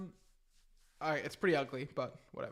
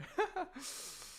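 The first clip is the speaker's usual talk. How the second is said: amused laugh; 9 semitones higher, 4 dB quieter than usual. Real, not acted. Laughs at own Mario line.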